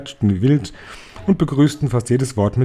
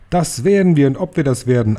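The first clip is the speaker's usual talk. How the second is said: higher, louder eager crowd roar; higher, loud screeching chorus; booming, shrill crowd; 4 semitones higher, 4 dB louder than usual. Acted. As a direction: roar it back like a drill chorus. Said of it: "Stimmen dröhnten und schrillten".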